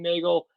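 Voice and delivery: "Nagel" with a long "ay" first, as in bagel. Real, not acted. Guest spelling out their name for listeners, "Nagel" pronounced like bagel. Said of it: "but pronounced like bagel".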